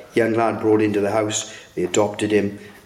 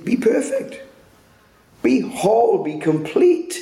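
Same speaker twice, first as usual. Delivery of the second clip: proclaiming Jesus' words; 12 semitones higher than usual. Retold or imitated. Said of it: "he finishes off saying".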